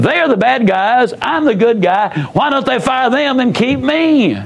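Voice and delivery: a light imitation of a self-righteous employee; self-righteous indignation. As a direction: voice her smug certainty she's the victim. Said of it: "The inflection in her voice clearly said".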